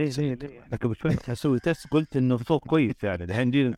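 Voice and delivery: tinny phone-call voice; am radio. Real, not acted. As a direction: talk like a caller on the radio. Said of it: "صوته يعني كأنه جاي من الراديو".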